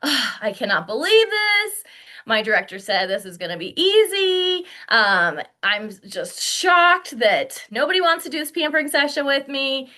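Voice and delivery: acted-out mild shock; huffy, mildly aghast complaint; shocked disbelief. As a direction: play the stunned new consultant. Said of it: "you go into this shock mode".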